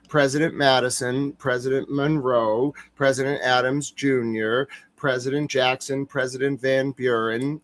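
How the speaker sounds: proud recital of every president; reciting presidents. Shown as a demonstration. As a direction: rattle off the presidents in order like a party trick. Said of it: "show you all my new trick".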